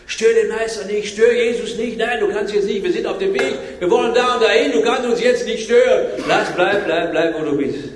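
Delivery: brusque companions fending off a beggar; acted rebuke. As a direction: wave off a pest, insistent. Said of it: "dann kommen die anderen, die mit Jesus unterwegs waren".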